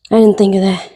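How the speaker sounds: breathless, winded talk; a bit out of breath. Real, not acted. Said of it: "I don't know why I'm out of breath".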